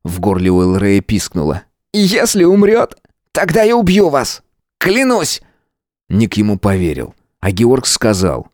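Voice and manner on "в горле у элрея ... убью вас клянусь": furious threat. A narrator's reading. Matvey furiously threatens Georg. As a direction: swear it furiously.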